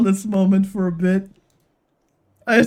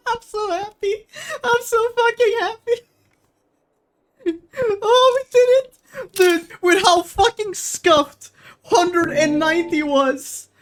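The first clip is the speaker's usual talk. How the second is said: very high, tearful voice of joy; overjoyed, nearly sobbing; happy crying; 9 semitones higher than usual. Real, not acted. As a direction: squeal it through tears of relief. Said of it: "I'm fucking crying".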